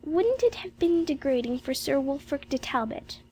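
lost in a daydream; Jane, dreamy. Acted. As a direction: muse aloud in a high child's voice. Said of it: "said Jane dreamily".

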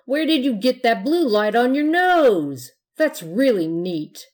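put-on excited kid. A narrator's reading. Excited trick-or-treater ghost.

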